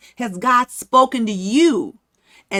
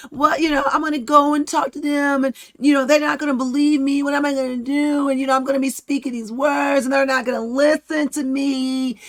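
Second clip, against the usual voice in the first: whining; 4 semitones higher than usual. Retold or imitated. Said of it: "it's like, whine, whine, whine".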